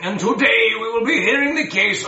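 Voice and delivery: high voice calling for order; high judge voice. Acted. Judge calls court to order.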